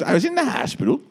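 high theatrical lament; Liza Minnelli impression. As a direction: wail it like a star. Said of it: "She goes".

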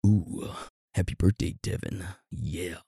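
soft, hammed-up seductive voice; sultry wish trailing off very quietly. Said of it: "in his most seductive voice".

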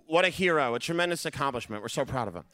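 mock-sincere praise for the cameras; fake TV praise. Speaking for the TV audience, mock-sincere praise. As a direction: sell it like a proud brother on TV. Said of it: "I should do this because this is gonna be on T V".

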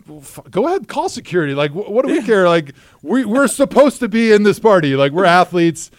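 loud cocky defiance; defiant boast. Retold or imitated. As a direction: puff up and dare them.

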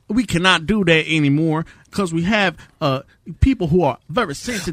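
hammed-up Louisiana Southern voice; mock Southern accent. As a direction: play a bigoted Southern good old boy. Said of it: "worst Louisiana accent I've ever heard".

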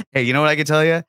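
put-on a light New York Italian-American accent, talking Sunday sauce; lightly voiced New York Italian guy bragging about the gravy; a hint of a New Jersey Italian accent, played for laughs. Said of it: "That was a good accent".

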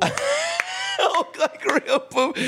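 squeaky, slowed talking toy Hulk; pull string toy. Pretend. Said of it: "the catchphrases when you pull the string on his toy".

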